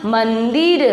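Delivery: मंदिर with the n held before द; half n sounded. Shown as a demonstration. Teacher repeats the correction, मंदिर with half n heard. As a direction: let the nasal ring in मंदिर. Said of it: "इसमें आधा ना आ रहा ना".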